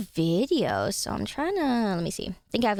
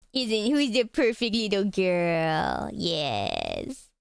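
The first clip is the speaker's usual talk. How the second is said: doting pet talk; 3 semitones lower, much slower than usual. Real, not acted. Owner praising her cat as perfect girl, doting. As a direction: coo slowly, dropping low on the last word.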